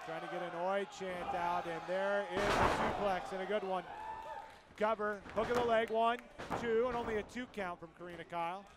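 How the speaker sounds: live play-by-play call; wrestling commentator. Real, not acted. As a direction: call the match as it happens. Calls the match live.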